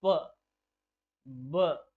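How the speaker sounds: प and ब said alone, crisp lip bursts; isolated sound demo. Shown as a demonstration. Teacher demonstrating bilabial sounds to students, crisp and clear. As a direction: pop each sound cleanly off both lips. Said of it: "जैसे".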